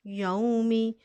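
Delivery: यौमी recited with the final kasra on मीम; teacher sounds out यौमी clearly; recited word. Shown as a demonstration. Teacher shows students the joined form, recited clearly. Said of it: "मीम के नीचे ज़ेर है".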